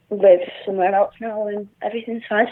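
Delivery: shaky, nervous voice; nervous, trembling a little; stage fright. Real, not acted. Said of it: "Sorry, I'm shaking. I'm dead nervous".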